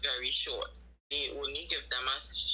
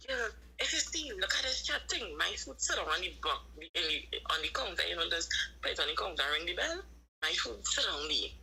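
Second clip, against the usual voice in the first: mock complaining worker; 2 semitones higher than usual. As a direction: squeak out her grumbling about the food. Worker complaining at Chinese counter.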